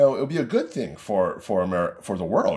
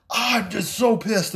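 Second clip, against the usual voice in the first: hammed-up slow complaint, a bit higher; mock pissed; 10 semitones higher, slower than usual. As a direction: imitate a sulky angry friend, slowly. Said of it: "he is just pissed".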